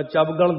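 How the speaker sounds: ਚਵਗਲ run together as two syllables, chav-gal; ਚਵਗਲ as the wrong reading, chab-gal; mispronunciation demo. Shown as a demonstration. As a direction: say ਚਵਗਲ without a vowel after the v. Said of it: "ਨਹੀਂ ਬੋਲਣਾ ਹੈ".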